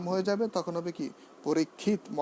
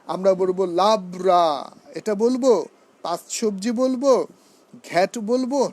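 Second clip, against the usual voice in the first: mock questioning; 4 dB louder than usual. Shown as a demonstration. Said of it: "না, আমরা বলবো লাফরা".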